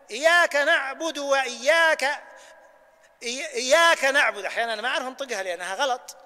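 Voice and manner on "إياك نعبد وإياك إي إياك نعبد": slow, breaking off after "وإياك" and restarting; wrong break mid-verse. Shown as a demonstration. Teacher shows a wrong break inside the verse. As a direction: stop wrongly after "وإياك", then start over. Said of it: "وإياك أن تقول".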